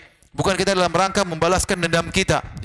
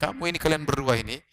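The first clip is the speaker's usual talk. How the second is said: much higher, pleading scold at a quarreling couple; exasperated scolding; 8 semitones higher than usual. Retold or imitated. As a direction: scold both of them, fed up and pleading. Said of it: "bolak-balik saya bilang". (teguran jengkel bernada tinggi)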